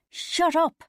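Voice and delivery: high, loud snap; shout. A narrator's reading. Bridget silences her friend's card bargaining, shouted. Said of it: "Bridget shouted".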